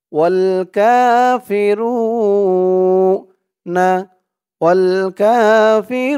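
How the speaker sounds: ওয়াল কাফিরুনা with রু drawn out slowly; long ru. Shown as a demonstration. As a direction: hold রু one alif. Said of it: "রু এক আলিফ টান".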